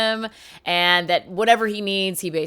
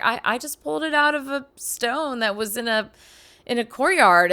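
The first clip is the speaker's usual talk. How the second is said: innocent and pure; 3 semitones higher than usual. Retold or imitated. Young squire innocently tells the ward where he found the sword. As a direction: say it like you have no idea what you did. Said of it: "very innocently and as pure as he can say it".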